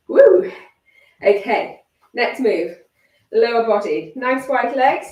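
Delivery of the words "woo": loud, high cheer; excited whoop. Real, not acted. Coach cheering after set.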